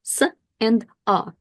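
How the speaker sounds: "s" and "a" sounded separately; teacher's phonics demo of "s" and "a"; isolated letter sounds. Shown as a demonstration. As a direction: sound out "s", then "a", one by one. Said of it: "thinking about what sounds these letters make".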